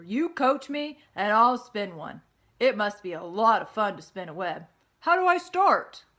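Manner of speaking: put-on loud, excited young pig; eager pig. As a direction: bounce with eagerness. Wilbur eager.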